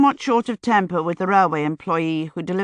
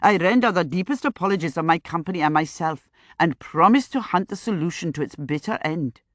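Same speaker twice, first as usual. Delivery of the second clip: put-on thickened Indian accent; 2 semitones lower than usual. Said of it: "his accent suddenly going south".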